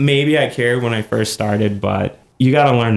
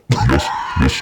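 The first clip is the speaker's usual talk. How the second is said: deep voice; 9 semitones lower than usual. Pretend. Mock answering God.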